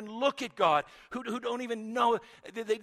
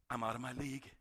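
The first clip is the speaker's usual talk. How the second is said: lower, softer humbled admission; humbled murmur; 6 semitones lower, 6 dB quieter, faster than usual. Acted. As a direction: shrink back before God. Job's humbled reply.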